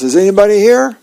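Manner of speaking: a light retold yell into the empty house; mild mock yell. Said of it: "and he yells".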